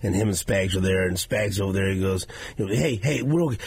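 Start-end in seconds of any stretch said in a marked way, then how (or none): 2.7-3.6 rallying coach. Retold or imitated. Quoting coach rallying team.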